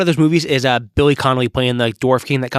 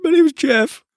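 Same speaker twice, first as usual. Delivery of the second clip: bad Mexican accent; slower than usual. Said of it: "Channing Tatum can't do a Mexican accent".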